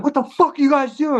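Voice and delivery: imitating an armed neighbour shouting at them; mock angry yell. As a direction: bark it at the kids on the wall. Armed man confronting them, quoted.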